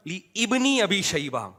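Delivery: "لی ابن" split as li IB-ni; imitating the repeated misreading. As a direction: say "لی ابن ابی شیبہ" as "li ibni abi shayba". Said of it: "وقف بھی نہیں کر رہے تو بار بار".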